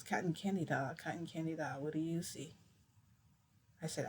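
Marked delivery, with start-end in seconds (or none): 0.0-2.6 soft, lilting rhyme, dropping quieter; soft sing-song. Retold or imitated. Therapist coaxing her with a rhyme, softly lilting. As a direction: croon the rhyme like a gentle game. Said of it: "He goes".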